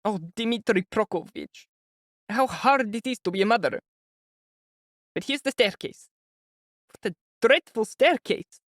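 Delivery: high, anxious mother's voice; an older woman fretting before meeting her son; high, worried mother voice; fretful mother. A narrator's reading. Pulcheria frets.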